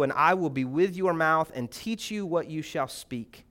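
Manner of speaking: measured, solemn Bible reading; scripture reading. Acted. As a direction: read the passage with weight. Reads Exodus passage aloud.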